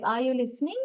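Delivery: "Are you listening" with the pitch lifting on "listening"; rising intonation. Shown as a demonstration. Teacher demonstrating a yes-no question to students, rising intonation. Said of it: "I am raising my intonation".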